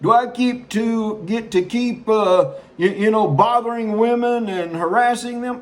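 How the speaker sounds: mock governor, hesitant and wheedling; imitating Cuomo. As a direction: act out a politician haggling for perks. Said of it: "I don't have a horrible New York Italian accent".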